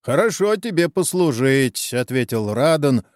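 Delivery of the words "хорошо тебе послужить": mocking. A narrator's reading. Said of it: "уже попросту насмехаясь".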